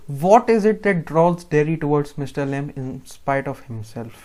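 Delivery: very slow, deliberate reading of an exam question; teacher dictating a question slowly. Shown as a demonstration. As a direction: read it out slowly for the class to follow. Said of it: "reading exam question aloud".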